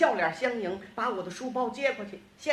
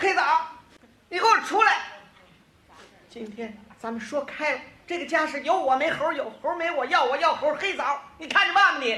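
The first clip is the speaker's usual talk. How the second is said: acted-out, loud, furious, angry yelling; 4 semitones higher, 5 dB louder than usual. Acting out how his wife shouted in the yard; imitating wife's angry shout. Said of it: "我爱人气得在院里就喊呢".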